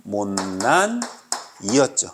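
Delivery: low, drawn-out syllables; mnemonic recitation. Shown as a demonstration. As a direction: stretch out the memory word slowly and low. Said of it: "아까 비음이 뭐였어?". (낮게 길게 늘여 외우기)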